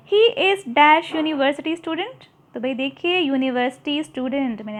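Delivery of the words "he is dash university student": slow loud classroom reading; slow exercise reading. Shown as a demonstration. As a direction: read very slowly and louder. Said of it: "exercise read aloud".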